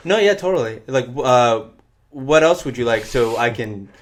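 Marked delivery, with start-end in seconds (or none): 0.1-0.8 meek eager agreement; placating yes to a customer; spineless agreeing. Retold or imitated. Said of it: "I do this sort of spineless agreeing thing".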